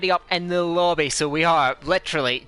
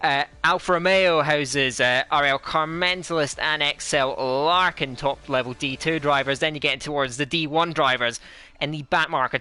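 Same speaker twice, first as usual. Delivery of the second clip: playful put-on Scottish accent; fake Scottish accent. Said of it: "me with my fake Scottish accent".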